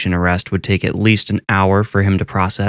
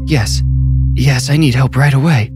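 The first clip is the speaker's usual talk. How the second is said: frightened; 5 semitones higher than usual. Acted. Frightened man pleads.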